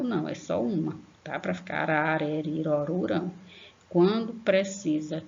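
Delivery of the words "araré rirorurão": "araré, rirorurão" as a run of tapped-R syllables; unforced R in each syllable of "araré, rirorurão"; weak R. Shown as a demonstration. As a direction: rattle off "araré, rirorurão" with light tongue flicks. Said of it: "Se o som for fraco".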